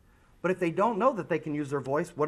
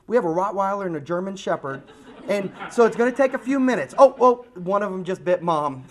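laughing mock excuse; 2 semitones higher, 4 dB louder than usual. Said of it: "come up with something different like".

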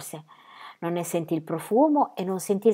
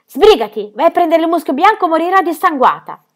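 loud, higher urgent orders; urgent shout; 8 semitones higher, 8 dB louder than usual. Acted. Ronia shouting orders at Birk, urgent shout. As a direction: bark the orders fast. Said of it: "Gridò a Birk".

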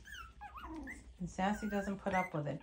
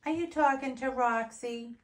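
higher, louder excited puppy talk; pet talk; 6 semitones higher, 7 dB louder than usual. Real, not acted. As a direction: cheer the puppy on brightly. Talking to puppy.

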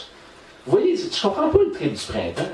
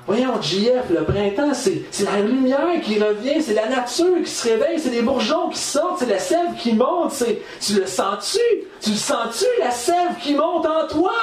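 building exalted pitch; 5 semitones higher than usual. Retold or imitated. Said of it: "ils me disent".

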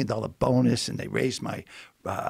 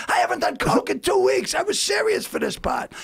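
outraged, much higher and louder; indignant protest; 3 dB louder than usual. Retold or imitated. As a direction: insist on your innocence loudly. Indignant protest to his agent.

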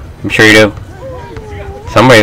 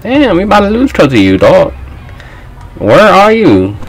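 yelling at teammate; 11 semitones higher than usual. Real, not acted. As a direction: shout across at John to guard his man. Yelling at teammate mid-game.

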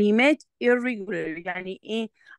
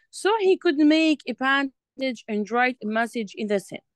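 slow reading aloud; much slower than usual. Shown as a demonstration. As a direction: read it out slowly for the learner. Reading the script aloud slowly. (قراءة بطيئة للطالبة)

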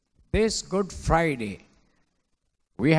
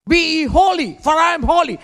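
shouted out, higher and louder; loud proclamation; 8 semitones higher, 5 dB louder, faster than usual. Acted. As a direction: thunder the scripture verse. Preacher proclaims scripture command.

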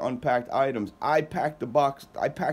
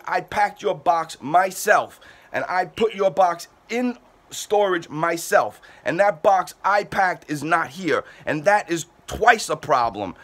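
raised, slowed, exasperated insistence; real exasperation; 3 semitones higher, 3 dB louder than usual. Real, not acted. Mover to upset customer on the phone, exasperated and raised. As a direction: let the frustration push through every word. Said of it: "and I'm aggravated".

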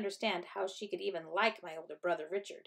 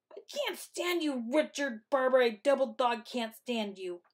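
high, exasperated outburst; screaming; 5 semitones higher, 4 dB louder than usual. A narrator's reading. Sister fleeing to grandmother, screamed fury. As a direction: wail it high, then louder. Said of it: "I screamed".

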